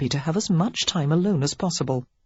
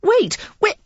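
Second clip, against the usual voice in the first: loud, high, urgent calls; crying out; 6 dB louder than usual. A narrator's reading. Lily hurries after the earl calling loudly. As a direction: shout after him, desperate to stop him. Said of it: "she cried".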